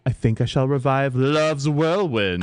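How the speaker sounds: grand British announcement; British accent. Acted. Mother announcing her play, British accent. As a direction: declare it like a British stage actress. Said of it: "my accent is superb".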